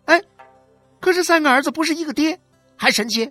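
high, loud, biting scorn with scoffing huffs; scornful yelling. A narrator's reading. 许玉兰 yelling scorn at 何小勇's wife. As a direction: spit every insult back at her. Street quarrel between two wives.

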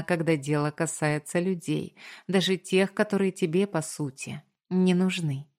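plain reading voice

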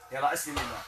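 soft, murmured supplication over the patient; quiet prayer. Acted. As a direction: pray over him softly and steadily. (دعاء رقية بصوت خافت)

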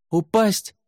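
high-pitched yell from afar; shouted reply. A narrator's reading. Shouted reply from below the cliff.

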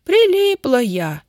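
high, slow, loud wail; плаксиво, всхлипывая. A narrator's reading. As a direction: wail it tearfully, drawing out the words. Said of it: "всхлипнула тётя Дуся". (жалобно, со всхлипом)

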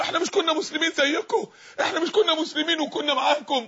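lightly acted protesting plea; pleading hypocrites. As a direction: plead as the shut-out calling to believers. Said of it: "ينادونهم ألم نكن معكم".

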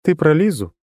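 high, even, detached voice; monotone girl. A narrator's reading. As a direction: keep it level and distant. Ан speaks.

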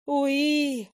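a short high happy squeal; bright mandrake squeal; joyful squeal. Acted. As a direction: squeal it out like a delighted little plant creature. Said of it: "не сдержал радостного визга".

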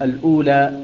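"الأولى" said slowly as al-ūlā; slow, careful "الأولى"; careful slow recitation. Shown as a demonstration. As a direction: draw out "الأولى" deliberately. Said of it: "هكذا مثل ما يقرأها حفص".

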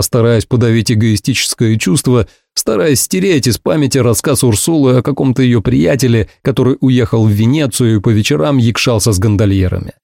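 ordinary delivery, nothing marked

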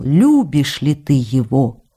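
slow, drawn-out quoted question; quoting a teasing questioner. Retold or imitated. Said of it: "Он всё спрашивал".

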